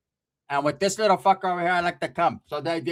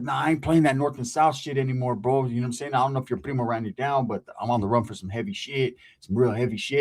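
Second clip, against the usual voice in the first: gangster talk; 5 semitones lower than usual. Retold or imitated. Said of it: "he talking like a gangster".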